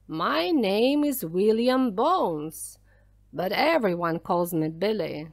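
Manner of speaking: a hint of a commanding pirate storyteller; lightly voiced pirate. Pirate orders children to hear his story, lightly voiced pirate. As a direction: lightly play a pirate holding forth.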